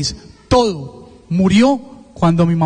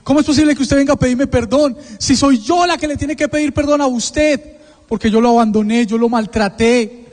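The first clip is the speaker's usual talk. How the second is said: confesión dolida de madre, en tono algo agudo; voz cortada, imitada; 4 semitones higher than usual. Retold or imitated. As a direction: imita con leve quiebre a una madre que confiesa. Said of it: "se le corta la voz a mi mamá". (voz entrecortada de madre, apenas imitada)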